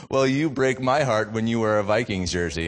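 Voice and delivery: child's unfazed retort, retold; imitating a kid standing his ground; imitated unflinching comeback. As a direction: fire it back without flinching, fully voiced. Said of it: "looks at me without flinching".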